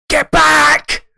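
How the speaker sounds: high, forceful warning yell; loud shout. Retold or imitated. Husband waking from a nightmare, shouting a warning. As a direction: shout it out urgently. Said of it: "shouted at the top of my voice".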